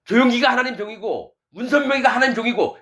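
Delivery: high-pitched insistent listing; imitating blind believers. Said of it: "이렇게 믿는 거예요".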